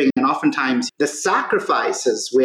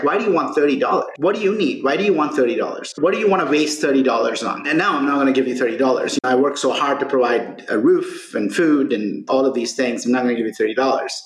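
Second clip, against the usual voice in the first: quick, mildly irritated retelling of a father's questions; a hint of a busy father brushing off his son, fast; mildly upset dad. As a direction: rattle off an overworked dad's annoyed questions, fast. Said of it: "he gets a little upset".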